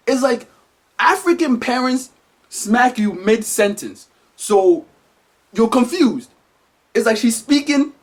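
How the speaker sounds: usual speaking voice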